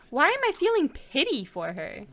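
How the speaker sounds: whispered inner thought; whispering. Acted. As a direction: whisper to yourself.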